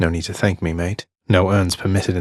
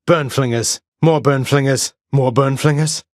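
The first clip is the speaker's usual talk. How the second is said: higher, louder warning; alarmed callout; 8 semitones higher, 4 dB louder than usual. Acted. Hero warning of more burn flingers. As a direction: shout it out as they come.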